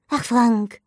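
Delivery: sneering imitation of her pitying sigh; mocking mimicry. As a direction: ape her condescension. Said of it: "äffte er sie nach". (spöttisch nachgeahmt)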